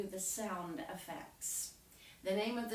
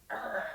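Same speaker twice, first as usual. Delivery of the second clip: rolling growl; grumpy "arr" sound effect; king's growl; 3 dB louder than usual. Shown as a demonstration. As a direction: growl like a bad-tempered king. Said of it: "you go".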